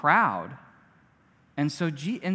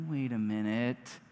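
put-on suspicious servant girl; 6 semitones lower, 9 dB quieter than usual. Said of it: "she's like".

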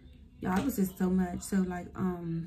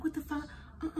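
confused, high and quieter; a dazed squeak of disbelief; waking in the ambulance, high confused squeak; high bewildered what the fuck; 9 semitones higher, 7 dB quieter, faster than usual. Retold or imitated. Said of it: "I'm like".

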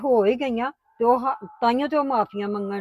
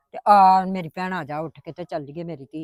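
tender coaxing; 5 semitones lower than usual. Acted. Mother coaxing daughter inside.

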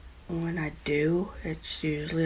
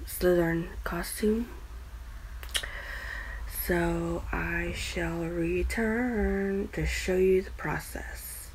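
whispering; 5 dB quieter, slower than usual. Real, not acted. Whispered aside while filming.

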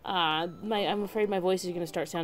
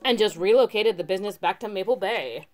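surfer dude voice. Acted. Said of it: "the surfer dude voice".

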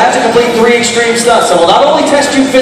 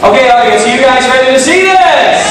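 hype shout; 4 semitones higher, much slower than usual. Acted. Host hypes audience countdown.

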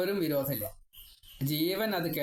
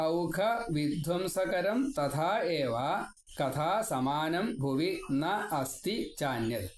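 verse recitation; much slower than usual. Acted. Reciting Sanskrit verse slowly.

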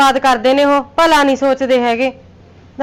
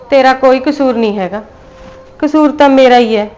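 louder, pleading self-blame; loud anguished confession; 6 dB louder than usual. Acted. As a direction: cry out that the fault is hers. Mother pleads guilt in quarrel.

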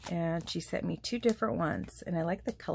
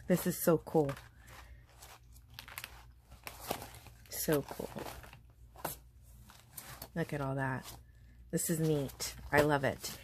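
getting emotional. Real, not acted. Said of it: "You're getting me all emotional".

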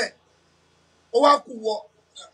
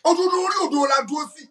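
triumphant shout; 5 semitones higher than usual. Real, not acted. Exulting, claiming he was right.

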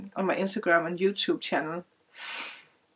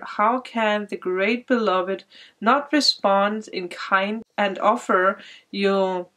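reading card text; slower than usual. Acted. Reads the card's text aloud.

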